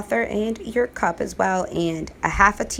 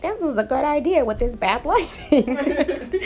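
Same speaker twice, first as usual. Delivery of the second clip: sarcastic self-quote; 6 semitones higher than usual. Retold or imitated. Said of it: "was like".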